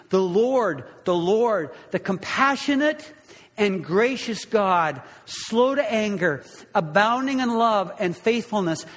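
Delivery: measured proclamation, lightly lifted in pitch; proclaiming. Acted. God passes before Moses, proclaiming his name. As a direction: proclaim each attribute with weight.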